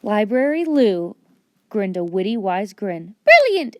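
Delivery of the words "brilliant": much higher, bright excited librarian; delighted high librarian voice; cheerful cry. Acted. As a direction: gush with delight, high and lilting. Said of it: "she cried".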